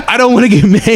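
high, panicky squeal through a laugh; scared kid. Retold or imitated. Retelling the juvenile hall whistle, a high laughing mock panic.

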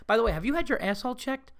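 fast, earnest question; mock-sincere worried question; sincere concern. Shown as a demonstration. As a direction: lean in and ask dead seriously. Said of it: "lean in and go".

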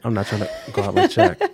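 laughing through the repeat. Real, not acted. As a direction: say it again while laughing. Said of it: "Yeah, I said it".

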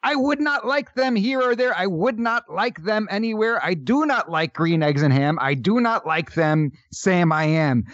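choppy sing-song storybook rhyme, starting high; mock a stilted read like a children's rhyme; Doctor Seuss recital. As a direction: recite it in bouncy, evenly beaten Seuss verse. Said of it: "You sound like Doctor Seuss".

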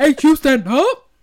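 laughing. Real, not acted. Laughing, teasing friend's joke.

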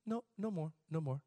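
put-on soft, understated old man's rebuke; real soft. Imitating old Pablito rebuking, real soft. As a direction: say it very softly, no force. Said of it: "Like, real, real soft".

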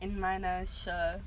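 slow, soft "in meiner Schuhe"; unhurried German "Schuhe", ending in uh; German pronunciation. Shown as a demonstration. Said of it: "That's how you say shoe".

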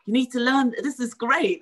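a giddy little voice urging herself on; excited inner voice. Retold or imitated. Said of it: "I could feel my brain going".

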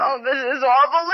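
a hammed-up sob on the words; mock crying. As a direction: fake weeping over the husband's death. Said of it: "That's not why I'm crying".

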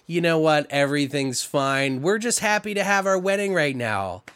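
mock calm turning to a shout. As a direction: build from forced calm to a yell. Killer's fake calm turns to rage.

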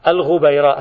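الغبيراء as al-ghubayrāʾ, ghayn with damma, ba with fatha; careful pronunciation. Shown as a demonstration. Teacher modeling the name for students, careful al-ghubayrāʾ. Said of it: "الغبيراء بضم الغين وفتح الباء".

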